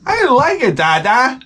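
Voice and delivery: high-pitched kid imitation; very high childish reply; little son's voice. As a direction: answer like a small child to Dada. Acted son answering his father.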